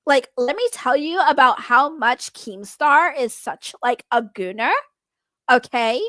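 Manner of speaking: hint of a valley girl. Shown as a demonstration. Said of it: "do a Valley Girl voice".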